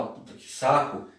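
muttered, unvoiced and fed up; annoyed mutter. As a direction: grumble it under your breath, half voiceless. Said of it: "em uma ocasião que você tá". (resmungo irritado, quase sem voz)

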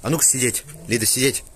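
loud firm sit command; firm dog command. Real, not acted.

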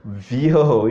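"vyoo" in one beat, falling; vyoo for toilets. Shown as a demonstration. Teacher repeating the toilet word, falling vyo. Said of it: "You don't hear the difference?".

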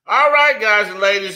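rally the room like a hype man; hyped-up opener. Real, not acted. Hyped host opening a segment.

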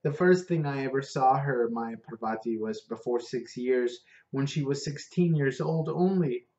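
a hint of an Indian accent, eager to tell; lightly voiced Indian cabbie. Prabhu recalls first seeing Parvati, lightly accented. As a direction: Prabhu fondly telling his friend about Parvati.

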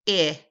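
teacher sounding out a vowel; short i sound. Shown as a demonstration. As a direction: model the short i crisply. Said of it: "The next sound is the sound".

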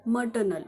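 मटर्नल said "muh-tuh-nul" with no r sound; मटर्नल without any r; silent r. Shown as a demonstration. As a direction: drop the r in मटर्नल. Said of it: "र हा silent आहे".

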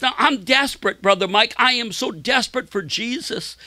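high, desperate plea; retold anguish. Sick man confiding in Brother Mike, retold anguish. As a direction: imitate a man pleading for help. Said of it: "he said it with great, like, anguish".

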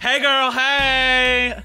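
lightly voiced valley girl, barely put on; valley girl impression. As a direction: toss off a breezy valley girl hello. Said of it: "That was my Rachel Five, uh, impression".

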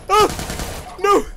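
short, high mock screams; hammed-up high yelps; imitated screaming. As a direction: mimic a viewer screaming in protest. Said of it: "screaming in the comments".

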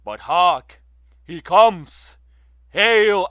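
exultant high shout; ringing herald cry. Acted. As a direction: call out his arrival like a herald. Herald announcing the god's arrival.

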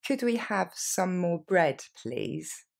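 slow, deliberate model phrase; slow it down so learners can follow; careful slow request. Shown as a demonstration. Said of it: "Plus lentement".

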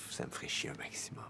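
low, half-whispered grumble; very soft, barely voiced; muttered aside. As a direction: mutter it almost to yourself. Acted aside in monologue.

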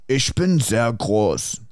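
slow, deliberate German words; German spoken slowly. Shown as a demonstration. Friends ask him to speak German, slow German. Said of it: "Go on then, speak German".

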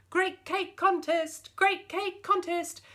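loud, high, drawn-out fairground cry; witch shouting. Acted. Witch shouting her contest across the lawn, loud and high. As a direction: bang the drum and bellow like a market crier. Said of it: "started to shout".

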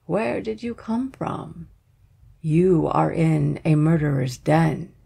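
put-on slow, hushed old woman; a lightly voiced old crone, slow. Old woman warns the bride.

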